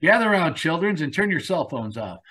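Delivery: put-on gather the kids round for a tale; storyteller uncle. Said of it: "Uncle Feek".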